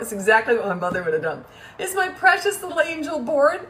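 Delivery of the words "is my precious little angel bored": high-pitched sugary sarcasm; baby the child mockingly, with laughter in it; mock-sweet cooing. Mom teasing her bored son, sarcastically doting.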